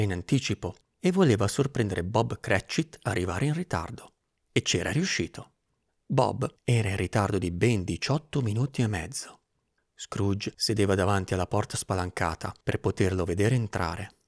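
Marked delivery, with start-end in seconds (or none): none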